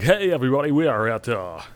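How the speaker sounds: cheesy morning radio host; lightly voiced DJ pitching an event; mock radio DJ. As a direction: ham up a morning zoo DJ. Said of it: "douchebag morning zoo D J is like".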